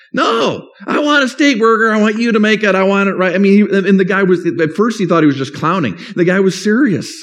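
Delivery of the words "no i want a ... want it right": higher, insistent demand; insistent customer. Retold or imitated. Customer demanding a steak burger from the cashier, insistent. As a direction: push the demand, won't take no.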